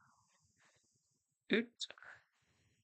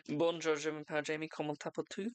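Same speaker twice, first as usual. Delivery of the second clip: schoolbook French; faster than usual. Shown as a demonstration. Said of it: "My French is good, is it?".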